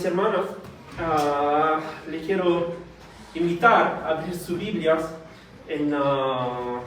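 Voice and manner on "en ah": ordinary delivery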